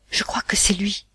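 breathy whisper, afraid of being heard; hushed fear. Acted. Wife whispering to husband on the boat, frightened hush. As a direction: whisper it to your husband, scared. Mother fearfully recognises the brother.

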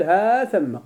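"ها ثم" with a long drawn-out هاا joined before ثم; forbidden prefixed form. Shown as a demonstration. Teacher warns students off a wrong form, "ها ثم" with drawn-out ها. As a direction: stretch the ها of "ها ثم", then a doubled mim. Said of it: "فلا تقل".

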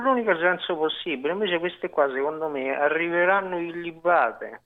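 slightly thick, slurred speech. Real, not acted. Caller airing his theory on radio, slurred voice. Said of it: "questa voce un po' impastata".

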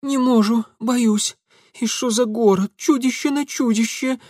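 put-on high, scared village girl voice; a cowering girl pleading in high pitch; frightened peasant girl. Scared girl hiding from Mitya, high and pleading.

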